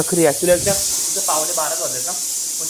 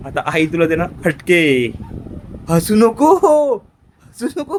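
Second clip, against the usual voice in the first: scolding; 6 dB louder than usual. Real, not acted. Tells laughing child off.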